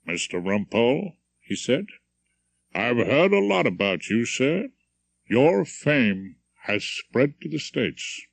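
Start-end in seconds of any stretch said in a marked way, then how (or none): 0.1-1.2 put-on faint transatlantic accent, friendly stranger; lightly American accent. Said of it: "in a low, rumbling transatlantic accent". 2.7-8.2 a hint of a low American drawl; faint transatlantic accent, friendly stranger; lightly American accent. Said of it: "in a low, rumbling transatlantic accent".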